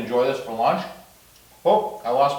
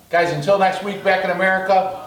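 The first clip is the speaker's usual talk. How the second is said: cheerful sign-off; 5 semitones higher than usual. Real, not acted.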